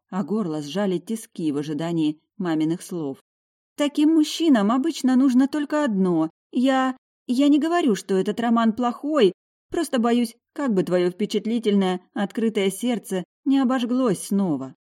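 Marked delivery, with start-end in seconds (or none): 3.8-14.7 worried mother. A narrator's reading. Mother cautioning daughter about rich men, worried.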